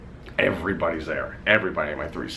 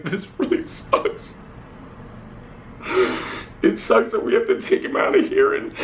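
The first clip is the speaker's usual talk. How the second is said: choked, tearful, barely holding on; crying; 7 semitones higher than usual. Real, not acted. Son telling viewers about leaving hospital, crying. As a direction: voice breaking high through tears. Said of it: "I'm crying".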